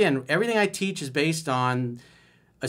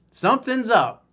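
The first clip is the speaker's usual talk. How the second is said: mock high voice; 10 semitones higher, 8 dB louder than usual. Mocking the girlfriend's hidden mood.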